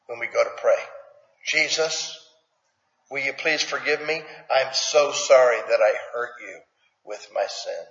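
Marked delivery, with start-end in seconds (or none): 1.5-7.9 sincere confession prayer. Shown as a demonstration. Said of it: "How about if we say that".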